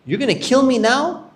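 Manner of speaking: high, loud accusing cry; shouting accusation. Retold or imitated. Israelite man shouts accusations at Musa, loud and high. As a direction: shout him out in front of everyone. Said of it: "He shouted out".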